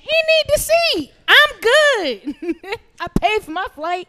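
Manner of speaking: high squeaky mocking voice. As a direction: squeak it out like a whiny guy.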